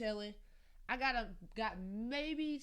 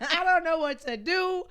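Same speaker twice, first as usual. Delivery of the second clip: laughing panic; 6 semitones higher, 11 dB louder than usual. Retold or imitated. Retold panicked call continues.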